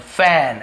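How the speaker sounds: फैन on a long, wide ऐ; AE in fan. Shown as a demonstration. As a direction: hold the open vowel in फैन. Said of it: "उसे हम ऐसे बोलते हैं". (फैन, चौड़े ऐ से)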